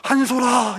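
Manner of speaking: crying out a name in grief; anguished calling out. Retold or imitated. Egyptian neighbor crying out for their eldest child, wailing. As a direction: call the name in a mock wail. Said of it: "이름을 부르면서 막 비명이 들리는 겁니다".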